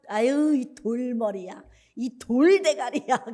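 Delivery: drawn-out exasperated name-calling; slow, teasing reproach; mock scolding. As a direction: scold a blockhead, dragging out the insult. Retold scolding of a blockhead.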